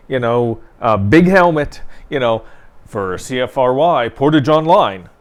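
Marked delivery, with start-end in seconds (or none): 2.9-5.1 lightly put-on radio announcer sign-off; a touch of radio presenter, punched out. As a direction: imitate your own on-air sign-off. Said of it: "with my radio voice".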